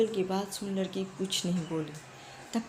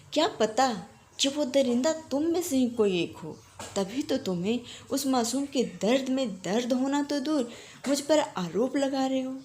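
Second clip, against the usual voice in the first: crazed shouting. Acted. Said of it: "पागलों की तरह चिल्लाती है".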